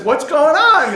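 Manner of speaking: loud, high-pitched officer's challenge; indignant demand. Acted. New lieutenant confronts soldiers over the funeral, loud indignant demand. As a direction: demand an explanation on the spot.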